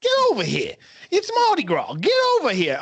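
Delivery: high goofy Scorpion bark; mock villain summons, hammed up. Joining the Scorpion bit.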